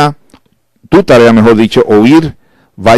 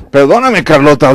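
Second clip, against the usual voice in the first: high, offhand mock sorry; lightly played dismissive husband; careless apology; 4 semitones higher than usual. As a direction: brush it off quickly.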